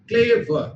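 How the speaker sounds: ক্লেভার in two beats, ক্লে-ভার; two syllables. Shown as a demonstration. Teacher explaining disyllabic words, ক্লেভার in two beats. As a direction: mark both syllables of ক্লেভার. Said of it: "যেটাকে দুবারে উচ্চারণ করি".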